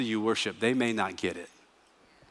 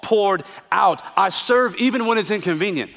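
rising, louder, slowed proclamation of praise; preacher's passionate vow of worship; fervent declaration; 4 semitones higher, 3 dB louder than usual. Acted. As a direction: proclaim it like you mean every word. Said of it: "and you say".

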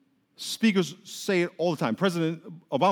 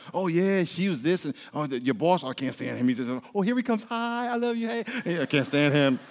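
two-faced gossip. Retold or imitated. Acted gossip, fake greeting to boss.

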